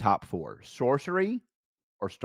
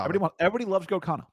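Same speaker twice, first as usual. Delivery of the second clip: mock enthusiasm; 2 semitones higher, much faster than usual. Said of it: "fast mock enthusiasm".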